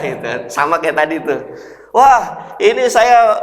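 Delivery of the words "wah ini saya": eager caller. Acted.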